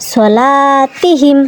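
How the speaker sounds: সলাতিহিম very slow, the long vowels held; slow drawn-out recitation. Shown as a demonstration. Teacher reciting সলাতিহিম slowly to the class. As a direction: ease through সলাতিহিম, holding each madd. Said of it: "teacher joins syllables into word".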